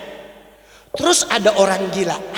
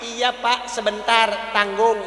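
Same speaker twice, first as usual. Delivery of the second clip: stalling servant; 4 dB quieter, slower than usual. Acted. Servant stalls the calling boss.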